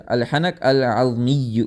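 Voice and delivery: "الحنق العظمی" drawn out slowly, each sound distinct; slow careful pronunciation. Shown as a demonstration. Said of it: "الحنق العظمی آتا ہے".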